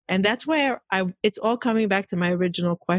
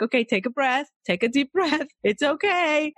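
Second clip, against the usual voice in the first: higher-pitched, lightly imitated reassurance; soothing husband; 6 semitones higher than usual. Husband calming a rushed wife in a hug, soothing.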